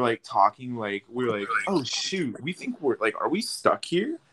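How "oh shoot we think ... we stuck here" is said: mock worry, pitched up; higher, questioning unease; retold worry. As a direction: act out dawning concern on a stalled ride. Retold worry at being stuck.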